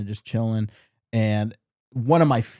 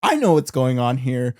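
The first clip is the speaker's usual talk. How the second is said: loud, higher-pitched mock Clooney tirade; Clooney rant; 6 semitones higher, 6 dB louder than usual. Fan imitates George Clooney yelling about vampires, loud and mock-angry. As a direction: bellow it like a tough guy who's seen vampires. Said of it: "George Clooney's like".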